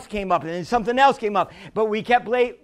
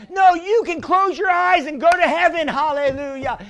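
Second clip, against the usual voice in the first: high, emphatic pulpit voice; full-force preaching; 7 semitones higher, 5 dB louder than usual. Real, not acted. Preacher telling the church about going to heaven, emphatic preaching.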